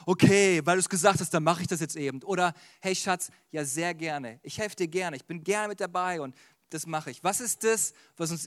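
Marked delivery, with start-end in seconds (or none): 0.1-2.2 louder, resigned mock agreement; acted grudging okay; grudging compliance. Acts out grudging obedience. 2.8-7.2 softer, gentle agreement; acted loving yes to a partner; willing and loving. Contrasting willing, loving obedience.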